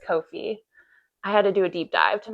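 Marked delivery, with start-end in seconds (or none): 0.1-0.6 "Ko-fi" said as KOH-fee, long O; Ko-fi pronounced coh-fee. Shown as a demonstration. Vlogger confirming how the site is pronounced, "Ko-fi" as KOH-fee. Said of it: "Yes, that's how it's pronounced".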